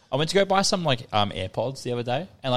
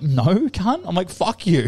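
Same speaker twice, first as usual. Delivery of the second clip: raised-pitch retold comeback; indignant refusal; 6 semitones higher, slower than usual. Retelling his answer to the salesman's offer, indignant. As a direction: throw back a mock-outraged refusal.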